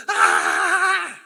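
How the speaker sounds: loud, high-pitched acted scream; hammed-up shriek of panic; panicked scream. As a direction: scream as if losing all self-control. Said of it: "Cuando no hay fruto del Espíritu es".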